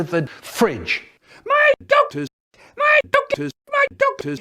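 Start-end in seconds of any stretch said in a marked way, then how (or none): 1.5-4.4 very high eerie ghost moan; ghostly wail. Acted. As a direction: wail it like a haunting spirit. Ghostly wailing repeated call.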